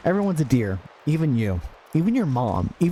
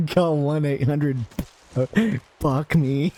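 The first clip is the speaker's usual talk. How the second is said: laughing; 3 semitones higher, slower than usual. Real, not acted. Laughs through the ad.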